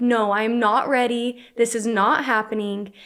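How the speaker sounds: panicked, alarmed delivery. Retelling the moment the water broke, imitating own past panic.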